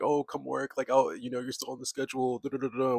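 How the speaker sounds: mock boss. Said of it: "your job's gonna call you back and be like".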